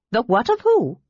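high, baffled kender; confused by the strange name; puzzled. A narrator's reading.

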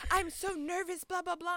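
high whiny imitation; mock nervous friend. Friend fretting about tickets, mocked high. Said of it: "when she was like".

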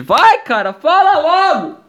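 high, drawn-out nagging; impatient subconscious. Acted. Inner voice pushing him to confess, impatient high-pitched pleading. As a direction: urge yourself on, high and exasperated. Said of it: "E meu subconsciente".

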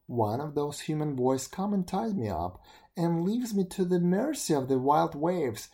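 grumbling beetle. Acted. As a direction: rant like a wronged beetle. Beetle rants about the world.

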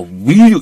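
"will you" with a clear WILL, as written; textbook pronunciation. Shown as a demonstration. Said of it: "이렇게 하는 사람이 많지 않아". ("will you"를 교과서대로 또박또박)

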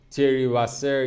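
slow, careful attempt at «تری واسر»; careful pronunciation. Real, not acted. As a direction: sound out the foreign name «تری واسر» slowly.

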